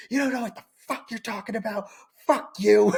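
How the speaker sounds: fast, high, fed-up snap; angry Italian mom. Retold or imitated. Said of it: "And my mom is an Italian woman".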